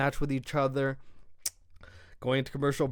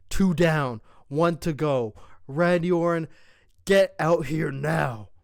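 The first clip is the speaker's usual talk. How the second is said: Solo's callout; 4 dB louder, slower than usual. Retold or imitated. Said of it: "Solo speaking on the mic says".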